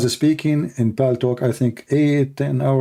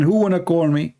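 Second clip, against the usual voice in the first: calling out; 5 semitones higher than usual. Retold or imitated. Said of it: "I lost my voice saying".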